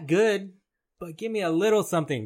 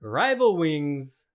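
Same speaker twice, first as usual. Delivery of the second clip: slow reveal; much slower than usual. Acted. Quiz reveal of the topic.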